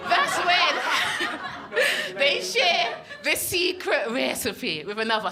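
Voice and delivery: hammed-up, drawn-out Scottish accent; George. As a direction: stretch the big reveal in a mock Scottish accent. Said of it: "this is how George sounded".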